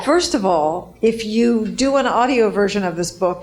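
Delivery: muffled behind a mask; through a face mask. Real, not acted. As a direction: speak through a cloth mask. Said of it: "hear me through my mask".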